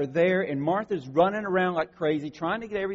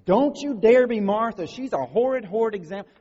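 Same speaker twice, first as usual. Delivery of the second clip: higher, louder hammed-up scolding; mock stern warning; 5 semitones higher, 7 dB louder than usual. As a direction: wag a finger in mock disapproval. Mocking people's harsh warning.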